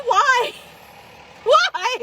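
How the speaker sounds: high wailing why through laughter; laughing whine. Retold or imitated. Imitating Jess wailing at the dog through laughter. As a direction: wail it half laughing. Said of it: "Jess is like".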